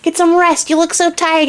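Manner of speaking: put-on the little man boasts to the crying girl, high and cocky. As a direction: brag like a tiny show-off imp. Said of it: "and he's like".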